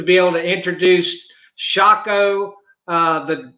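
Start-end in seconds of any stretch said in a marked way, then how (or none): 1.6-2.5 "Shako" said as SHAH-koh in a Southern drawl; Southern drawl, "Shako" with a long open first vowel; southern drawl name. Real, not acted. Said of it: "in my southern drawl".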